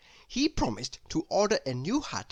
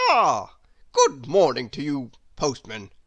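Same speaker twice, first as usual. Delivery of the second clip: Chatterbox replies; 7 dB louder than usual. Acted. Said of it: "replied Mister Chatterbox".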